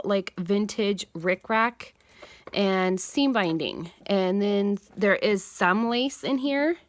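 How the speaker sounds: sniffly, runny nose; sniffling. Real, not acted. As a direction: talk through sniffles. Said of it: "Excuse my sniffling".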